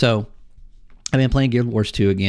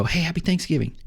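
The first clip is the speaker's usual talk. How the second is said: lightly acted, higher-pitched holiday hello; cheery greeting; 6 semitones higher, 4 dB quieter than usual. Player greeting strangers in a shooter game, cheery greeting. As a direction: pipe up with a friendly retold greeting.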